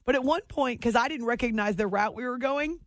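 ordinary talk

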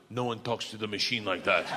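lightly voiced low Russian menace; Big Igor. Igor defends his pal to the teacher, lightly voiced low menace. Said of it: "spits it in her eyes and goes".

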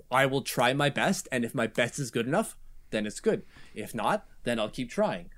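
low, quiet, understated imitation of a player; Robin Salo. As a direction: lightly imitate a matter-of-fact player, soft and low. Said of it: "this is how he talks".

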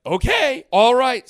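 high, loud sarcastic okay; mock eager okay. Agreeing to the heist plan, mock eager. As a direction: play along, hammed-up and high.

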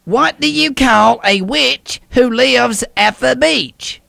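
slow joke setup; drawn-out riddle question; telling a dad joke. Acted. Caller sets up a Halloween joke.

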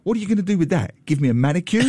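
breezy mocking question, laughing through the end; teasing a tiny mugger, flippant and amused. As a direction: toss it off flippantly at the little mugger. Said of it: "saying to the guy all flippantly".

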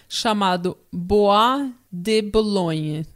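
slow Italian-accented place name. Shown as a demonstration. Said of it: "Eu falei com sotaque italiano".

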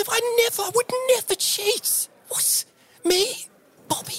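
very high, squeaky denial; squeaky protest. Acted. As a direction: squeal out your innocence. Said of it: "He's like".

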